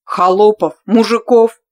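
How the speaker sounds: insistent demand. Acted. Stubborn man's demand.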